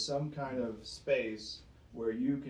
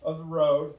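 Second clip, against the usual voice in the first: mock careless bystander; 6 dB louder, faster than usual. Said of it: "It's like saying".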